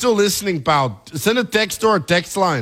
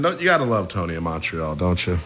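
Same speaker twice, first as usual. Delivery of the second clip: put-on Canadian accent; 11 semitones lower than usual. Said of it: "I could pass for a Canadian".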